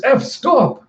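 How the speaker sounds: high, urgent acted cry; desperate shout. Andy pleads as Effie attacks him.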